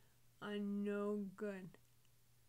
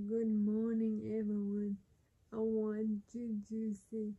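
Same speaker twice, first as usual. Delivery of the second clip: loud burped greeting; burping the words; 8 dB louder than usual. Real, not acted. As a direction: force the words out as burps. Loud burp-talk opening.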